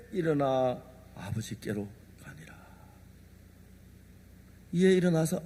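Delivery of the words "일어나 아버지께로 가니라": whispered scripture. Acted. Preacher whispering the verse about the son rising. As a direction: breathe the verse like a secret.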